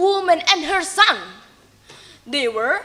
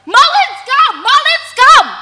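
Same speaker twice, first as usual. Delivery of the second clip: much higher, loud excited shout; 11 semitones higher, 9 dB louder than usual. Acted. Villagers spotting Malin's ship, loud excited shouting. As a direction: call it out across the beach. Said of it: "They shouted".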